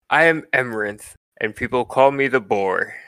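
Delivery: lightly voiced proud bird warrior; bird ranger character. Game master's defeated bird introduces himself to the party, lightly voiced character. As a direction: announce yourself with a touch of pomp. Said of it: "he says to the three of you".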